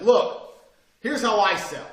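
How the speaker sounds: half yelling. Retold or imitated. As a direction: bark it across the meeting room. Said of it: "I was half yelling".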